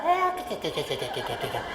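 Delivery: squeaky-to-low cartoon sailor voice, pitch swinging wildly. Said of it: "I'm gonna do Popeye".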